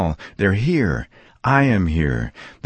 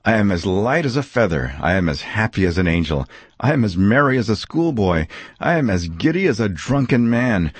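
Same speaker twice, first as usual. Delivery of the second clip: rising higher with giddy joy; giddy Scrooge; 4 semitones higher than usual. Acted. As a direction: build from light to merry shouts of joy. Giddy Scrooge's joyful list.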